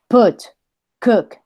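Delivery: "put" and "cook" with a short, forceful U; short grunted U. Shown as a demonstration. Teacher likens it to a punch in the stomach, grunted U. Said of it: "la dicen corta, como un pujido".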